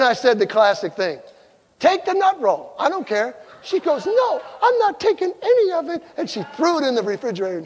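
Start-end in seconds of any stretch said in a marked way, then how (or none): 1.8-3.3 huffy retort. Retold or imitated. Classic line in acted quarrel. 4.1-6.0 huffy refusal. Retold or imitated. Wife's refusal in acted quarrel.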